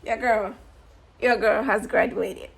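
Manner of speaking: loud, laughing announcement; proud triumphant announcement of graduating; excited proclamation. Real, not acted. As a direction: shout the news with joy.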